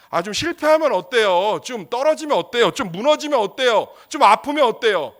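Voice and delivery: loud, high rising challenge; impassioned preaching. Real, not acted. Preacher rousing the congregation, loud and high. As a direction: build it up like a revival call.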